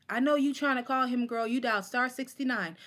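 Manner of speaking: high sassy recitation of a first poem; mock-perform the teen rhyme; reciting old poem. Poet recites her first bad open mic poem, sassy. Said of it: "All I know is I said".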